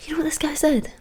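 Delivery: hushed build-up before the reveal; conspiratorial whisper. Real, not acted. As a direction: whisper it like a secret to a friend. Setting up the punchline.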